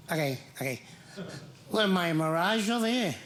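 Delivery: lightly voiced cranky Italian; a touch of indignant griping; mad brother-in-law. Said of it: "He's like".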